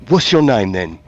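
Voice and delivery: lightly Southern, eager scholar; southern accent. Acted. Scholar asking the mythling's name in a light Southern accent. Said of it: "I went southern as fuck".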